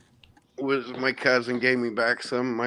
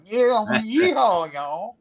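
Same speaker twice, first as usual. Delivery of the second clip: high, nose-held mock Midwest twang; 12 semitones higher, 5 dB louder, slower than usual. Shown as a demonstration. Mocking own Indianapolis accent to a New Yorker, exaggerated Midwest twang. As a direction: holler a hammed-up Midwestern hick accent as if pinching your nose. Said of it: "might as well be holding my nose going".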